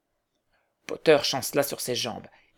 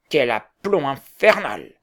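exclaimed; 5 dB louder, slower than usual. A narrator's reading. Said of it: "s'écria un des membres".

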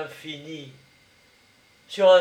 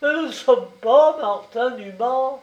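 louder, higher insistent denial; insistent repeat; 6 semitones higher, 5 dB louder than usual. A narrator's reading. Prosper echoing his friend, higher insistent denial. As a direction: hammer the denial home. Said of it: "répéta".

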